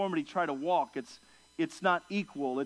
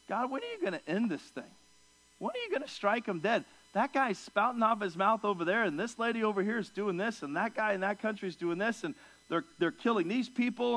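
higher, exasperated pleading with God; impatient complaint; 4 semitones higher than usual. Retold or imitated. Believer pleading with God over the world, in exasperated complaint. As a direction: demand to know why God waits.

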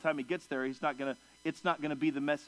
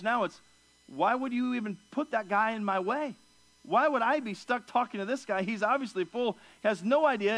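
higher, indignant questioning of the master; exasperated complaint; 5 semitones higher than usual. Retold or imitated. Listeners baffled by the fool, asking the master in exasperated complaint. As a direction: vent the frustration of being stuck with a fool. People complaining about the messenger.

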